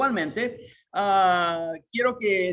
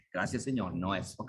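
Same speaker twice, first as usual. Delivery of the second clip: much softer and lower, meek acceptance; meek thanks; 12 semitones lower, 8 dB quieter than usual. Acted. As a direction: thank him quietly, submitting. Believer meekly accepts God's no. (aceptación mansa, en voz baja)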